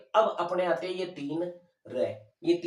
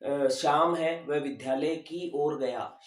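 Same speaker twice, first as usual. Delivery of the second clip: slow example. Shown as a demonstration. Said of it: "और होता है वह दिशा के लिए".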